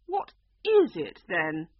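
loud, slow, anguished cry; crying unicorn. A narrator's reading. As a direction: wail it out as the unicorn. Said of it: "the unicorn cried".

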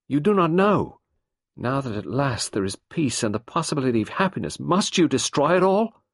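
high, loud, rising desperate plea; pleading wife. A narrator's reading. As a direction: beg him to drop the inquiry. Nadine pleads with Poirot.

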